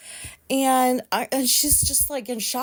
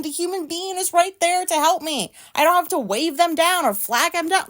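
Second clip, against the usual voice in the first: retold rant; 4 semitones higher than usual.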